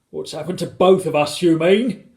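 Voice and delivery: husband's loud, heated correction; shouted. A narrator's reading. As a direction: shout it back indignantly. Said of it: "shouted Mister Gregg".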